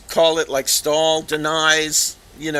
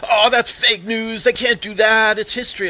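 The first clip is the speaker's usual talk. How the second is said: mock indignant denial; 6 semitones higher, 4 dB louder than usual. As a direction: imitate his protest, higher and louder. Acts out Stahl's indignant denial.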